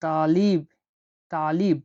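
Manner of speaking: তালিব with a heavy, deep ত. Shown as a demonstration. Teacher showing the emphatic Arabic t, heavy and deep. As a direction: start তালিব with a dark, heavy t. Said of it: "একটু গভীরভাবে বলতে হবে".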